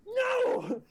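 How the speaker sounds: very high, loud screamed refusal; screaming. Acted. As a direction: scream it, each cry building. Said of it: "starts just screaming and saying".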